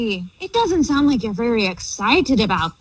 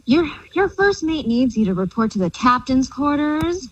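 pirate voice. Pretend. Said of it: "the theme of talking like a pirate".

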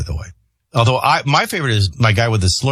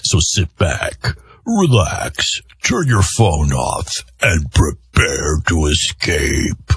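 slow smooth announcer read; 6 semitones lower, much slower than usual. Acted. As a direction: lay it on like a radio promo. Promo outro read.

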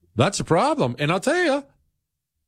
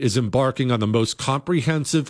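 brisk sponsor read over music; upbeat announcer read; 3 semitones higher than usual. Acted. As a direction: sell it like a radio spot. Host reads sponsor ad.

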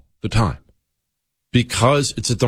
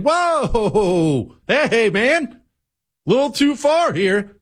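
mock objection; 10 semitones higher, much slower than usual. Imagined Democrat objecting.

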